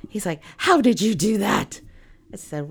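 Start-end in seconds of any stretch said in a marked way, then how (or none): 0.6-1.8 mock astonished question; lightly hammed-up wonder; imitated amazement. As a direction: act out an impressed client's disbelief. Amazed client, retold.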